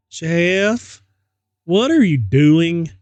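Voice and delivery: alarmed mother. Acted. Mother finds him in bathroom.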